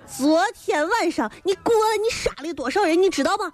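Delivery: 生气质问. Acted. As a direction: confront him over the killings. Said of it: "你今天咋那么生气呢". (装作生气地质问)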